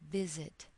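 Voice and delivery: "visit" with the weight on VIS, falling away on "it"; stress on first syllable. Shown as a demonstration. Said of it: "When the first syllable is stressed".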